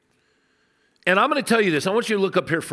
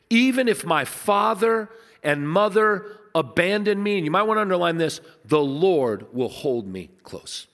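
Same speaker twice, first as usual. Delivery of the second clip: a pastor reading a psalm aloud to the congregation; scripture reading. Acted. Reads scripture verse slowly.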